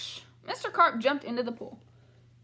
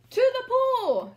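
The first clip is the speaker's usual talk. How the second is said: high, loud, slow yell; 11 semitones higher, 8 dB louder, much slower than usual. Acted. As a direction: bellow it out to the crew. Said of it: "yelled the fireman".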